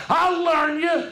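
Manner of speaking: a high, sharp mock yell. Rabbit threatens the tar baby with a high yell. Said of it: "Brer Rabbit yelled".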